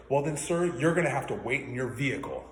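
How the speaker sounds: mocking the manager. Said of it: "interrupts her ... and goes".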